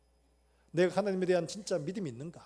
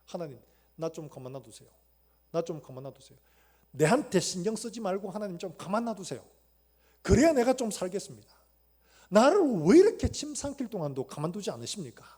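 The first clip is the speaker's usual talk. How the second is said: weary lament; 2 semitones higher, 9 dB louder than usual. Retold or imitated. Pastor retelling a minister's plea to God, weary lament building to a cry. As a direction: beg God to leave him alone, rising. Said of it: "탄식했다는".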